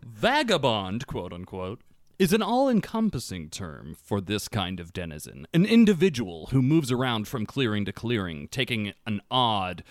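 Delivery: measured, dramatic read-aloud with deliberate pauses; best reading voice. Real, not acted. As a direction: read the lore aloud, lowering the line endings. Reading faction lore aloud.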